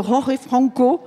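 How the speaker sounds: "Jorge Franco" said slowly, trying for Spanish sounds; self-conscious Spanish-style "Jorge Franco"; attempted Spanish pronunciation. Shown as a demonstration. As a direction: carefully try the Spanish "Jorge Franco", aware the accent is bad. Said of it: "j'ai dit que j'allais essayer".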